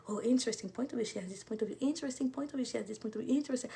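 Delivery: softly recited under the breath; quiet repeated chant to yourself; muttered mantra. Retold or imitated. Recites her silent coping mantra.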